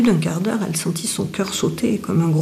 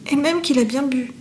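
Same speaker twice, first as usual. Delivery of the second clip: plain reading voice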